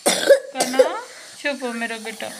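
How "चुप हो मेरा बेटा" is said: softened motherly comforting; tender soothing. Real, not acted. Mother comforts her crying son, tender hushing.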